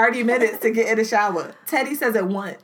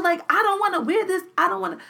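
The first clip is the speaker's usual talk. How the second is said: put-on high whining child voice, much higher; whiny kid; 8 semitones higher than usual. Mother retelling her daughter whining about clothes, high whiny. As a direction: whine like a sulky kid at dawn.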